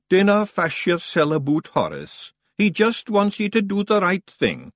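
high Scots pixie voice; cheerful wee Feegle reassuring. Acted. Daft Woolly tells Roland not to mind the cheese.

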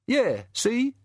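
high, sneering little imp; cheeky high goblin snarl; giggly sneering imp. A narrator's reading. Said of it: "said the imp".

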